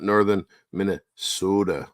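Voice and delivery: northern Minnesota in a drawn-out Minnesota accent; playful Minnesota accent. Shown as a demonstration. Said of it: "You didn't say it with a Minnesota accent".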